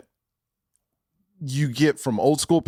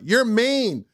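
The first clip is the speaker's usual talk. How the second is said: whining son; 9 semitones higher than usual. Retold or imitated. Son accusing his parent in public, high mock wail. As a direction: imitate a young son protesting at high pitch. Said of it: "he knows how to embarrass me in public".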